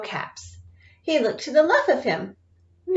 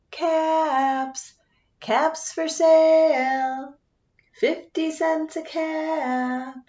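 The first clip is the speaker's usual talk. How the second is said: slow, drawn-out street cry; peddler calling; 3 semitones higher, much slower than usual. Acted. Peddler walking back to town, slow selling call. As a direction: call out your wares slowly. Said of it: "he walked back to town calling".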